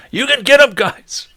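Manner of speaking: high, loud yell of encouragement; high-pitched rallying cry; cheering shout. Acted. Character cheers others on from bushes.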